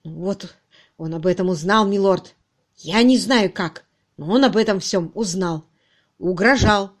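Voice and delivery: halting, aggrieved confession; mildly agitated, guilty man; distraught confessing subordinate. Acted. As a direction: explain your downfall wretchedly. Narrator acts suspect's confession.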